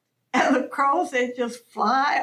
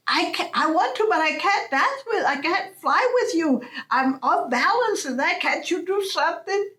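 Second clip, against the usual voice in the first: pleading Coyote; 5 semitones higher than usual. Acted.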